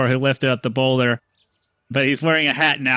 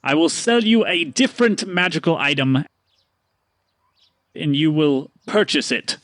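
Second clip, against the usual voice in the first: weary sigh; 2 semitones higher than usual. Acted. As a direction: exhale and offer a deal, tired. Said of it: "he sighs and he goes".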